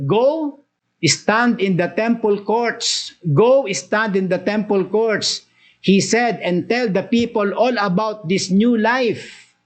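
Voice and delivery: a hint of a commanding angel, slow; angel's order. Angel commanding the apostles, lightly voiced and slow. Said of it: "nagbigay ng order".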